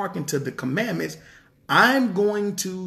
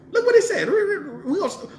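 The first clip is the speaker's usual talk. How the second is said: laughing excitedly; 13 semitones higher, faster than usual. Real, not acted. Excited laughing before reading scripture.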